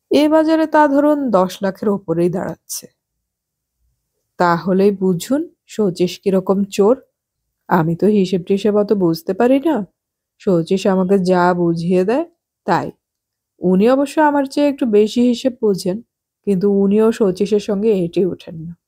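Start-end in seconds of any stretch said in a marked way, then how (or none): none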